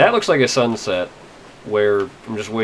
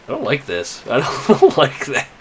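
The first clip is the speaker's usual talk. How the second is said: rattled; 4 semitones higher, 3 dB louder than usual. Real, not acted. Player unsettled after a scare in the game, rattled.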